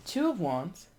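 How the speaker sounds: usual speaking voice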